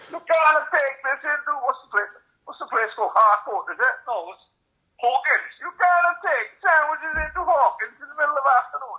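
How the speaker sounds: mock Russian accent. Staffer refusing his sandwiches, in a high mock Russian accent. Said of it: "they all in a Russian accent".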